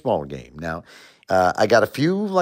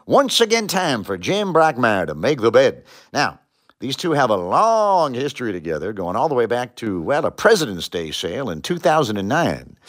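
sportscaster intro. Shown as a demonstration. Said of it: "tip number one, you gotta have a good intro".

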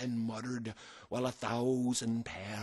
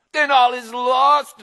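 panicked pirate shout; 12 semitones higher, 14 dB louder than usual. Acted. Pirate despairs before the attack.

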